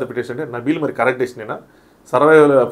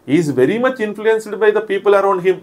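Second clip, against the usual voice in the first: higher, slow, deliberate English line; quoting Seetha; 6 semitones higher, much slower than usual. Retold or imitated. Seetha telling the host about Nikhil, a higher, slow, deliberate delivery. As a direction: spell out her verdict slowly and firmly. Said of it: "Sita".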